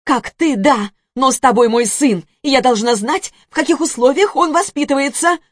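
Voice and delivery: loud, high heated argument; angry. Acted. Zhanna arguing with ex-husband.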